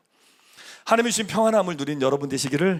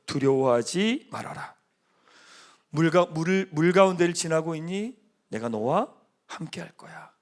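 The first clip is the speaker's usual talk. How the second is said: tender voice of God. Acted. Pastor voicing God reassuring the frightened believer tenderly. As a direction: speak gently as if God comforts you.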